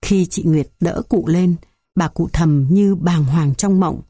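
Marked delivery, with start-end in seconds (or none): none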